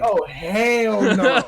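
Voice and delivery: slow, drawn-out retold refusal; emphatic refusal. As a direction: stretch it out, wanting no part of it. Retold refusal after scare.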